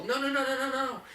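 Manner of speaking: high sharp startling no-no; sharp high correction to a puppy; firm no. Shown as a demonstration. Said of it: "And so I'll clap, I'll stomp".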